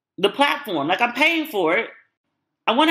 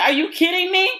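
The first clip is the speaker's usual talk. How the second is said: much higher disbelieving Miranda; mock outrage; 10 semitones higher than usual. Vlogger voicing Miranda finding the condom, outraged disbelief. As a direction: hit the ceiling in disbelief. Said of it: "And she was like".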